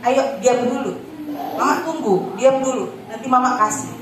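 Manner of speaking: lightly imitating a patient, unbending mum; mother standing firm. Mother ignoring the tantrum, gently insisting, mildly firm. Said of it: "mama saya akan selalu bilang begini".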